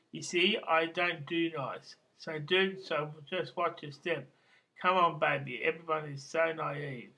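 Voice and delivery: measured, declaimed amateur poetry reading; poem reading. Acted. Poet reads his Slobodan Milosevic poem to listeners, reciting evenly.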